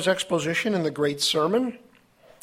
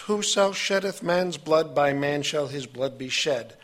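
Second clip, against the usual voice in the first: slower, weighted delivery on "Whoso sheddeth man's blood"; slow, emphatic "Whoso sheddeth man's blood"; emphatic scripture reading. Shown as a demonstration.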